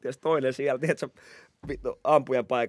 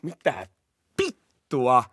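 stunned police; much slower than usual. Retold or imitated. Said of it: "Ne on silleen".

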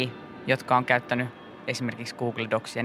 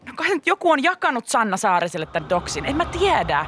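flustered; 8 semitones higher than usual. Retold or imitated. Flustered panic about the doc.

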